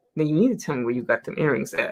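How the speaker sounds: very low, hushed whisper. Retelling how strangers come up and speak to her, imitating a whisper. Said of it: "they always catch you with the whispers".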